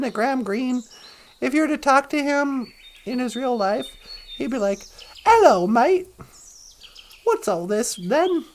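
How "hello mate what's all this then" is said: thick mock English accent. Imagined actor greeting in real life, English accent. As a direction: put on a swooping English greeting. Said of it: "like, a thick English accent".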